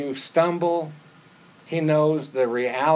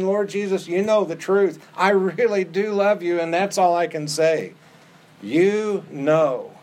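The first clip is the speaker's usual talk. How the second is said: earnest Peter; 4 semitones higher than usual. Acted. Peter's earnest answer voiced.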